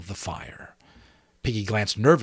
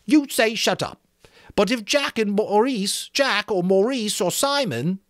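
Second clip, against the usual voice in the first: high, loud, bitter cry; bitter Piggy; 12 semitones higher, 4 dB louder than usual. A narrator's reading. Piggy to Ralph, bitterly crying out. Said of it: "cried Piggy with bitter realism".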